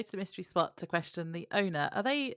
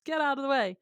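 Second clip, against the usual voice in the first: mock shout; 8 semitones higher than usual. Old man driver to man in the road, mock shout. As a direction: imitate an old driver yelling a warning. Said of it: "the old man driver shouts".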